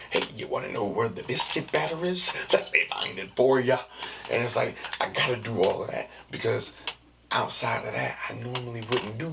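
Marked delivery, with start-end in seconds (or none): 0.1-3.8 overly sweet customer service voice; sugary shop clerk voice, half joking; sarcastic work voice. Acted. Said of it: "So it's, like, sarcastic".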